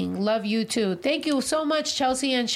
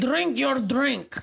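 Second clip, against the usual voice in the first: slow, deliberate Irish accent demo; demonstrated Irish accent; much slower than usual. Shown as a demonstration. Correcting co-host's attempt, slow Irish accent. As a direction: model it slowly in an Irish accent. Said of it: "Then how you say it?".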